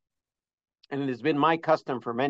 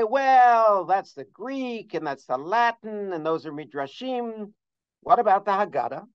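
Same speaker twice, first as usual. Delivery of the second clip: imagined objection; 5 semitones higher than usual. Acted. Lecturer voices a listener doubting his sources, mock objecting. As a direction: voice a sceptical listener's objection, pitched up.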